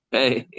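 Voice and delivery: "Hey" as a failed "Pei", lips apart; breath H replacing the P in "Hey"; Pei without lips. Shown as a demonstration. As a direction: try P with open lips so it comes out "Hey". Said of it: "It's gonna sound like a hey".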